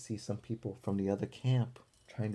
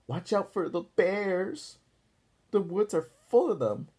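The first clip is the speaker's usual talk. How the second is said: yelling warning; 8 semitones higher, 6 dB louder than usual. A narrator's reading. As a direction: call out the bear warning across the camp. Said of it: "she yelled".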